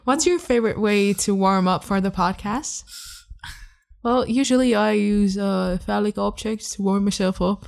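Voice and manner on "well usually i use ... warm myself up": light Irish lilt, barely put on; a hint of a playful Irish accent. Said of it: "That was an Irish accent".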